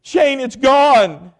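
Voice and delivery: high, very slow, wailing sob; imitating wife bawling. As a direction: drag it out like she can barely speak. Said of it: "she was bawling, crying".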